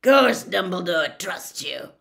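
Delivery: loud, slow growl. A narrator's reading. Ex-Auror scoffing at the teacher's claim, growling. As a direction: growl it slowly and forcefully. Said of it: "growled Moody".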